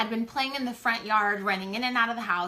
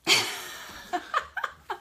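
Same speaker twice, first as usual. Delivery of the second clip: airy high-pitched giggle; high breathy laugh. Real, not acted. Laughing at the story.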